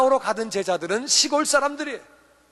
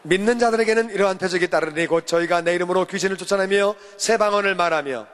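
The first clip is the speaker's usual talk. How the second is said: steady, formal Bible reading, a little lower; scripture reading; 3 semitones lower than usual. Acted. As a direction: read the verse aloud for the congregation. Leads responsive scripture reading.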